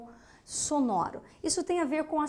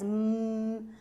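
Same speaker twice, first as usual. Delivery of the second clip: soft hummed hum to feel the vocal cords; voiced hum demo; 2 semitones lower, 4 dB quieter than usual. Shown as a demonstration. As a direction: hum so the throat buzzes. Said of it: "Você tem a vibração das cordas vocais".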